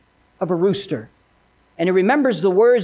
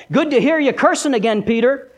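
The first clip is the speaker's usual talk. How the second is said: lightly voiced sneering accuser; taunting Satan. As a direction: needle him with mild mock scorn. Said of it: "Over and over, he would have tell, told him that".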